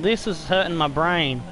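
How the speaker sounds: ordinary talk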